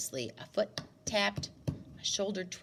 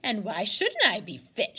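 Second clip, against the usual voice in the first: louder indignant comeback; retort; 7 dB louder than usual. A narrator's reading. Grandmother retorting to the stranger's compliment, indignant. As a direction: bristle back at him. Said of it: "she retorted".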